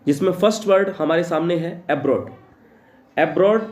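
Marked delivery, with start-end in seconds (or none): 3.2-3.6 slow dictation. Shown as a demonstration. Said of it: "teacher dictates the definition".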